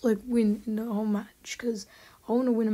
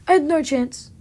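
raging gamer; 4 semitones higher, 9 dB louder than usual. Real, not acted. Gamer complaining loudly.

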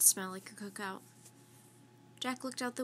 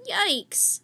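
higher, louder jump of fright; startled yelp; 8 semitones higher, 9 dB louder than usual. Acted. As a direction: yelp at a sudden scary noise. Loud harsh cackle startles.

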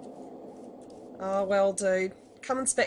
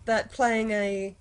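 ordinary talk

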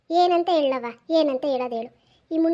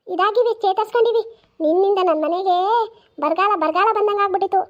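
angry grandmother yelling; 3 semitones higher, 5 dB louder than usual. Acted. Grandmother yelling at granddaughter, angry and loud. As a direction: bark the blame at the girl like a furious granny.

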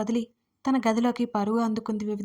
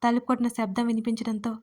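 ordinary delivery

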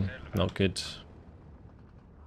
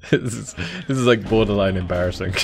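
nervous laugh; 4 dB louder than usual. Real, not acted. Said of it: "You can tell by my nervous laugh".

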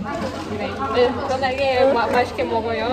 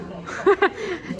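laughing; 7 semitones higher than usual. Real, not acted. Laughs at the advice.

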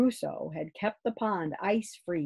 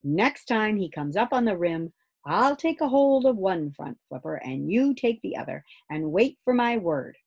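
firm father; 3 semitones higher, 5 dB louder than usual. Acted. Father instructs Grumble.

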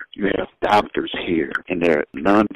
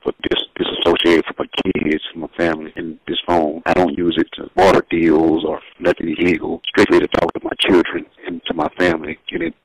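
phone call. Real, not acted. Caller on prison phone line.

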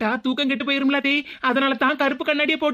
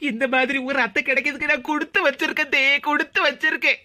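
acted weepy thanks; tearful gratitude. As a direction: choke up with mock-emotional gratitude. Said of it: "அழாத மருமகளே".

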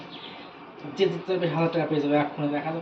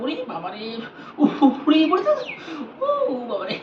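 yelping at the icy cold; sharp gasps, hand in ice; gasping from ice cold; 8 semitones higher, slower than usual. Real, not acted. Hand in ice water challenge.

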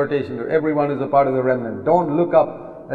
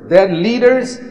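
high, slow, drawn out; drawn-out denunciation; 5 semitones higher, slower than usual. Real, not acted. Preacher condemning leaders, high and slow. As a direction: stretch every word in scorn.

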